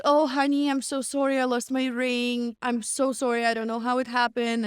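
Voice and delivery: a mild mock of a sugary apology; American girl. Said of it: "the American girl said".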